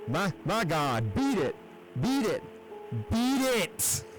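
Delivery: high, distant panicked cries; terrified shriek. A narrator's reading. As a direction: shriek out in pure horror. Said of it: "rose to a shriek fraught with all the horror".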